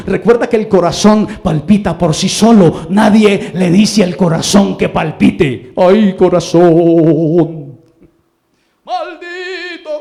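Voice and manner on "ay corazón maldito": mock lament. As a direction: ham up a melodramatic heartbreak. Lamento burlón, hermanas se ríen. (lamento melodramático de burla, muy lento)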